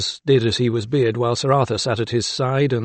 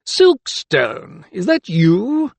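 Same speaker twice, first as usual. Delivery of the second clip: higher, raised call; 8 semitones higher, 4 dB louder, much slower than usual. A narrator's reading. Magistrate to doctor from the landing, calling out. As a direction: call down to someone you recognise. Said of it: "he called".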